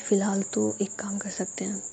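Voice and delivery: hushed, breathy suggestion; secret whisper. Acted. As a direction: whisper the plan conspiratorially. Friend quietly proposes a plan.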